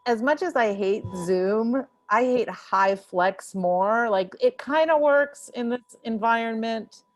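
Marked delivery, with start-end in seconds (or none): none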